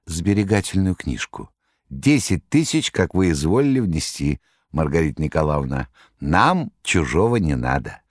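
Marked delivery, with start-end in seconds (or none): 1.9-8.0 a hint of Koroviev.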